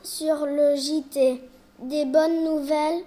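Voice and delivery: slow, careful newsreader delivery; child anchor opening the school news; news read. Acted. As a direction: announce the headlines slowly to the class.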